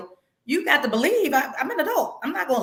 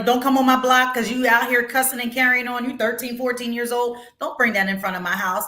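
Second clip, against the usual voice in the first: put-on scolding kids. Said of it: "I cuss 'em out".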